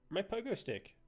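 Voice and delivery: quietly notice the loss; a soft, let-down "My pogo stick."; dismayed murmur. Real, not acted. Gamer realizing his item is gone, soft murmur.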